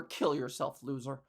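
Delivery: troll insult. Retold or imitated. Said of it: "whose first response to anything".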